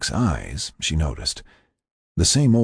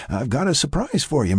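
light chuckle into higher-pitched voice; chuckle, then announce it, pitched up; chuckling lead-in; 9 semitones higher than usual. Acted. Frank teases a surprise, chuckling higher voice. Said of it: "Frank chuckled".

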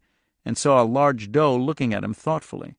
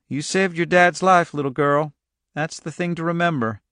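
giving directions in a slightly higher voice; a hint of rural farmer, higher than narration; lightly voiced country man; 5 semitones higher than usual. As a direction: plainspoken local man explaining the route.

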